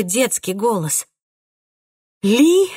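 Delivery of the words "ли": high breathy gasp of surprise; astonished gasp, much higher and louder. A narrator's reading. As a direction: breathe his name out, stunned. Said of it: "выдохнула я от изумления".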